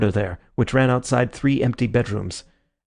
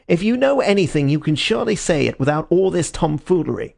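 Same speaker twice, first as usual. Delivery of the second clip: angry; 6 semitones higher than usual. A narrator's reading. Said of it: "grow red and angry".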